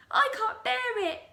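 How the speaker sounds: high, loud anguished cry; frightened Mrs Twit. Acted. Wife terrified of shrinking, high anguished cry. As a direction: wail it out in terror. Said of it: "cried Missus Twit".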